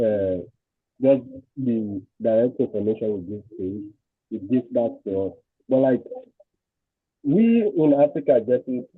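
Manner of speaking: muffled voice, as if covered. Real, not acted. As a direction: voice muffled, far from the mic. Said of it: "your voice is, is muffled".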